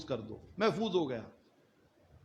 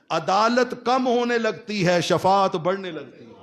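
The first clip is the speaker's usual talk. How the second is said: impassioned preaching; 4 dB louder than usual. Real, not acted. Preacher telling how Judgement Day turns, impassioned proclamation. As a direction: proclaim the turning point in one go.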